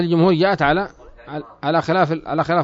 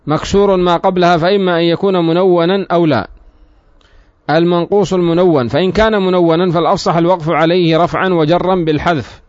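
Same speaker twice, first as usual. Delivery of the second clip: projected, fully vowelled recitation; formal text reading; 3 semitones higher, 4 dB louder than usual. Real, not acted. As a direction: read the commentary out formally. Reads the book's commentary aloud. (قراءة شرح بصوت جهوري)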